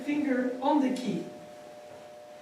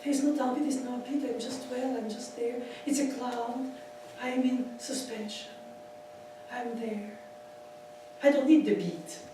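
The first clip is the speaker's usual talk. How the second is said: dreamy musing; 7 dB quieter than usual. Retold or imitated. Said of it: "It's almost like".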